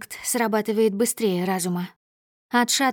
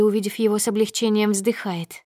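plain reading voice

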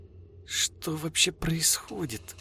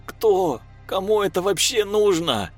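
higher, louder, sharpening anger; growing anger; 11 semitones higher, 5 dB louder than usual. A narrator's reading. Girl losing her temper at Lev, higher angry voice. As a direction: Yulia snaps back, angrier. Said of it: "Всё больше злилась девушка".

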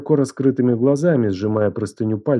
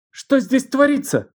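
sharply raised, high angry demand; voice like thunder; 14 semitones higher than usual. A narrator's reading. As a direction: burst in on them, furious aunt. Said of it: "Её голос прозвучал громом".

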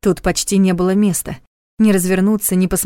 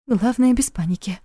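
trembling voice; 3 semitones higher than usual. A narrator's reading. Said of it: "как дрожит голос".

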